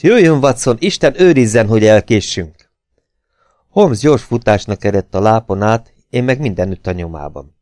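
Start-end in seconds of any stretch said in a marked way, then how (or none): 0.0-2.7 urgent, higher-pitched call to hurry; rally your companion with alarm; crying out. A narrator's reading. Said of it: "kiáltott fel Holmes". (sürgetően felkiáltva)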